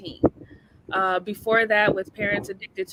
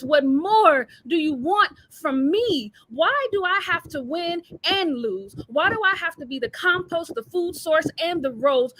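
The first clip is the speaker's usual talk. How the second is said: a singer's voice; 6 semitones higher than usual. Acted. Fed-up mother pleads to her kids, mock singer voice. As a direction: plead it higher, stretching the key words. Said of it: "In my singer voice".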